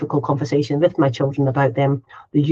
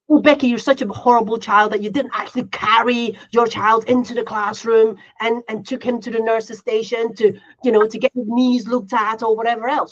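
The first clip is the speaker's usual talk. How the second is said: mock scolding critic; 4 semitones higher than usual. Imagined critic scolding parent.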